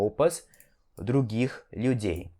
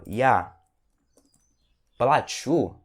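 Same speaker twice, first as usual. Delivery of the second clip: плачу said pla-CHU, weight on the last syllable; stress on the U; 3 dB louder, much slower than usual. Shown as a demonstration. Teacher shows the form with another meaning, stressed U in плачу. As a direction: push the final U of плачу. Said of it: "dessa forma aqui".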